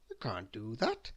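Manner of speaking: soft whisper; whispered protest. Acted. Gunner quietly protesting the plank. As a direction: whisper the objection.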